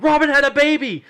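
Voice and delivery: high, loud blurting out; frantic blurt. Retold or imitated. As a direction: blurt the news in a panic. Blurting news to dad.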